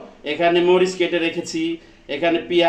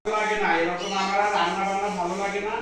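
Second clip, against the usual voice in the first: half-muttered mock grumbling about chores; grumbling complaint; 3 semitones higher than usual. Husband grumbling about washing pots behind his wife's back. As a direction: grouse under the breath so the wife won't hear. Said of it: "তুমি এত জোরে জোরে কথা বলতেছো কেন?".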